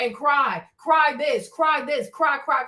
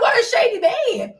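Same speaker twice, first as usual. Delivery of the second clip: high, loud laughing line; 7 semitones higher, 4 dB louder than usual. Retold or imitated. Teasing her husband James, laughing loudly. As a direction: laugh while calling him shady. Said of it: "I'm like".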